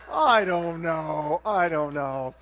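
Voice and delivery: a hint of a mechanic shrugging it off; lightly voiced garage guy. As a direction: drag out a doubtful I don't know. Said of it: "the guy's like".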